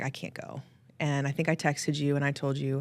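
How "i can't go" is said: a breathless, voiceless whisper. Retold or imitated. Telling her friend she's too broken to come, whispering. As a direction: barely get the words out, drained. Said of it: "that night I was like".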